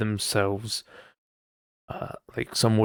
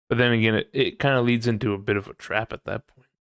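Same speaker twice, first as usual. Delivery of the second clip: normal talking voice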